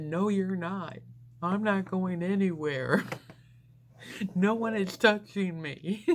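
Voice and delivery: stubborn refusal. Retold or imitated. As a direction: shut the sister down firmly. Refusing sister's offer to come.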